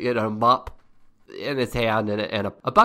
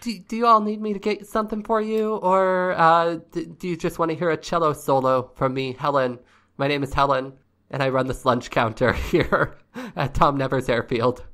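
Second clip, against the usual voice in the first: higher-pitched, folksy counter lady; chatty diner hostess in a raised voice; friendly lunch counter woman; 6 semitones higher than usual. Acted. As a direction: play Helen offering service, voice pitched up at first.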